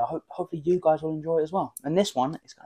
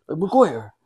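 put-on Irish accent; 2 semitones higher, slower than usual. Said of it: "say Maguire".

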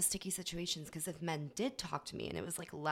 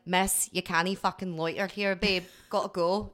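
louder, slow brush-off as bar staff; mock bar staff; 7 dB louder than usual. Bar staff telling a loitering girl to leave, loud mock brush-off. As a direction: shoo her out of the bar, no patience.

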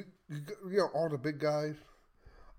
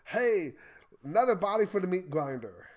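higher, louder mock-eager politician call; 4 semitones higher, 5 dB louder than usual. Host mimicking politicians who always want war, mock-eager. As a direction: call it out like a glib war booster.

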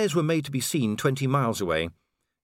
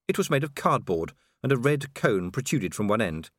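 ordinary delivery, nothing marked

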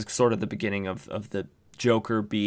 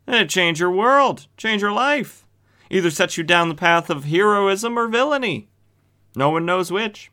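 much higher, louder, hammed-up commercial pitch; ad announcer; 9 semitones higher, 4 dB louder than usual. Pitching gas guns to the listeners as a mock ad announcer. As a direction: sell the gas gun like a cheesy radio ad.

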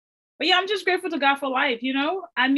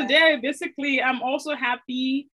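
trying not to smile. Real, not acted. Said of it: "Why are you smiling so hard?".

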